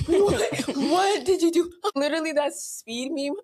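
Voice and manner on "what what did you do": higher, incredulous question through laughter; laughing disbelief. Retold or imitated. Sibling sees the broken sink, laughing in disbelief. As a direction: act out astonishment while cracking up.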